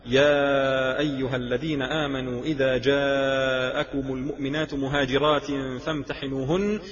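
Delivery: Quran recitation. Acted. Preacher quoting the verse revealed about testing migrant women, recitation. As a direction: recite the verse, lengthening the vowels.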